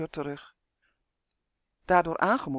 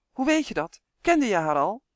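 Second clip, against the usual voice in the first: eager curiosity; 3 semitones higher, 5 dB louder than usual. Acted. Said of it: "van nieuwsgierigheid".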